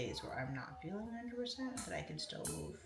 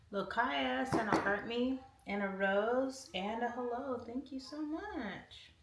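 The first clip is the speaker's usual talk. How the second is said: higher, louder, slow, drawn-out thanks; gushing thanks; 5 semitones higher, 5 dB louder, slower than usual. Real, not acted. Streamer gushing over a viewer's heart and rose, drawn-out and delighted. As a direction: stretch the thank-you like a delighted sigh.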